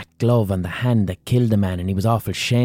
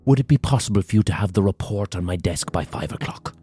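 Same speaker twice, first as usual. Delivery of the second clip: lightly done Irish barrister, choked and strained; a hint of a lawyer forcing out polite talk; mock professional-class Irish tone; posh barrister voice. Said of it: "delivered as a type of insincere laughter".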